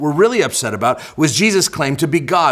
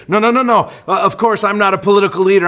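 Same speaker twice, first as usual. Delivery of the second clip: mild, higher-pitched protest; acted reassuring disclaimer, pitched up; hasty denial; 4 semitones higher, faster than usual. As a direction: brush the idea off quickly, voice lifted. Imagined Jesus hastily denying political leadership.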